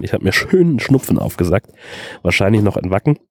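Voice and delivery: stuffy nose from a heavy cold; man flu. Real, not acted. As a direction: talk through a blocked, sniffly nose. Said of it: "klinge ich wahrscheinlich ein bisschen unappetitlich".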